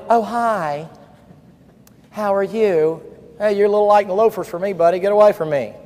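lightly voiced limp handshake guy; mock a timid young man brushing someone off; a hint of a weak, awkward greeter; mock timid greeting. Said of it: "one of them".

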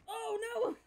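high, sharp cry of alarm; shocked. Real, not acted. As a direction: yelp it in sudden dismay. Sudden shock in game.

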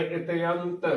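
ਇਤਿਅੰਤ as "ite-ant"; correct pronunciation demo. Shown as a demonstration. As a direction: say ਇਤਿਅੰਤ with "te-ant" as separate vowels. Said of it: "ਉਚਾਰਨ ਕਰਨਾ ਹੈ".

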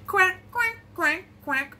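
high quacks stepping down; mother duck. Pretend. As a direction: quack brightly like a duck, dropping after two. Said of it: "Mother duck said".

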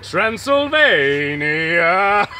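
hammed-up grand announcement. Mock grand delivery.

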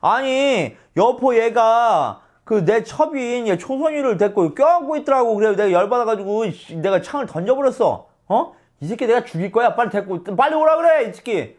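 높고 크게 씩씩대는 분노; 부하에게 아들 욕하며 소리치듯; 동탁 흉내로 화냄. Retold or imitated. 동탁 역으로 화내며 말함. (화난 동탁 흉내)

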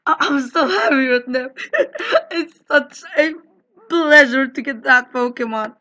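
laughing, teary-sounding delight; mock joyful laughing. Player fakes overjoyed thanks after getting the Pokemon. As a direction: ham up the overjoyed winner.

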